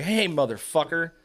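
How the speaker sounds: retold mild warning with an edge; attitude. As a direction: re-enact putting a grabby stranger in his place. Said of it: "caught an attitude with him".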